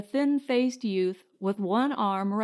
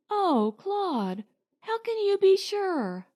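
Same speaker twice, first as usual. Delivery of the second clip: doubtful wife; 9 semitones higher than usual. A narrator's reading.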